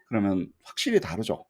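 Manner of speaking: ordinary delivery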